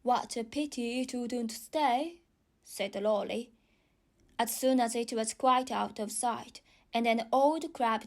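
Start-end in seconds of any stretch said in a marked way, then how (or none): 0.0-2.2 slow, regretful bird voice; a bird sighing regretfully; Lory voice. Acted.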